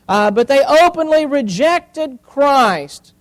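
loud, emphatic sermon delivery; forceful preaching. Real, not acted. Preacher to congregation about those who rejected Christ, forceful.

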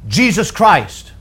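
mild, drawn-out mock exclamation; imitated exclamation. Preacher quoting someone using the name in vain, mild imitated exclamation. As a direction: exclaim it slowly, as a quote. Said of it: "someone will just exclaim".

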